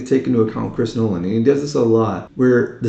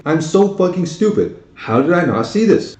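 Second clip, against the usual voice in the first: re-enacted disbelief, pitched up; exasperated self-reproach; 6 semitones higher than usual. Viewer recalling the plot twist at the end, exasperated self-reproach. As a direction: kick yourself in mock astonishment.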